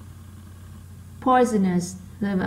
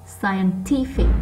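slow "scientific" with TI picked out; stressed third syllable; much slower than usual. Shown as a demonstration. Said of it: "nó to hơn những âm còn lại". (đọc chậm, nhấn âm ba của "scientific")

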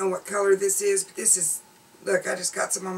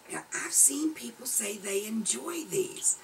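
whisper; 3 semitones higher, 5 dB quieter than usual. Real, not acted. Confiding aside.

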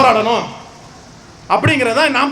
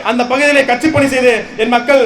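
forceful protest speech in long, punched phrases; impassioned rally oratory. Real, not acted. Party speaker denouncing a political killing to a crowd, impassioned oratory. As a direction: address a crowd with indignant conviction.

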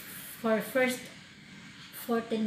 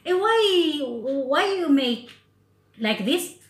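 imitating employer; 5 semitones higher, 5 dB louder, slower than usual. Employer scolds her cutting.

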